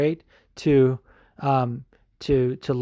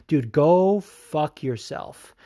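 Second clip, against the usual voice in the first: slow, deliberate insult; contempt; 3 semitones higher, much slower than usual. Real, not acted. Addressing the fighter he hates, slow contemptuous insult. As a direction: spit each word out slowly.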